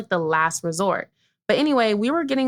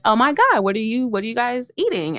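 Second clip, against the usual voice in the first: Aubrey; 3 semitones higher than usual. Retold or imitated. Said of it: "obviously Aubrey has a very".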